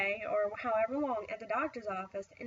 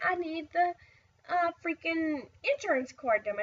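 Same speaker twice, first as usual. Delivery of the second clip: higher, louder exasperated demand; 6 semitones higher, 4 dB louder than usual. Retold or imitated. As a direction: snap it out like you're at your wit's end. Frustrated mom needing insurance card.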